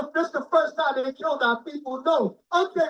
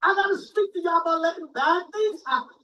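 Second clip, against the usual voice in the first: voicing the Lord; 4 semitones higher than usual. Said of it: "The Lord said".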